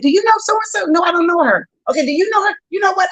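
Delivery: acted quote. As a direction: playfully ask around one by one. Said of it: "I was like".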